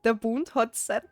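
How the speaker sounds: amused reading in Austrian dialect. Shown as a demonstration. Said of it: "how you would s-, er, speak in the dialect".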